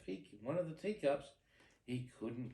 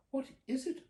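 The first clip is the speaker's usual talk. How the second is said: surprised question; 12 semitones higher, 4 dB louder than usual. Acted. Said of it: "asked Cinderella".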